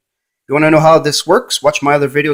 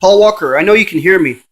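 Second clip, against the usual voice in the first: louder call of the name; louder call to the spirit; 2 semitones higher, 4 dB louder than usual. Real, not acted. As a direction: summon him by name, voice raised. Calling the ghost by name.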